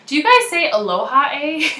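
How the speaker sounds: playful teasing with a rising "eh"; light mock-Canadian questioning lilt; Mel. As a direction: imitate a friend mocking Canadian speech. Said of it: "actually makes fun of me".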